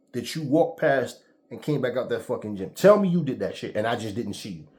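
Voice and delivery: retold confrontation.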